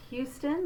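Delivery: "Houston" with a subtle hissed h at the front of the mouth; forward H sound. Shown as a demonstration. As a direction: lean lightly on the h of "Houston". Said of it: "the way we say the H".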